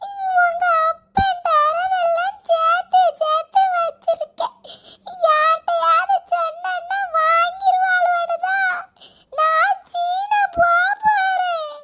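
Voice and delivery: crying. Acted. Grandma still wailing.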